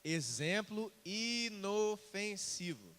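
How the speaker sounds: "exemplo inofensivo" very slow and measured; deliberate repetition. Shown as a demonstration. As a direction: spell out "inofensivo" syllable by syllable.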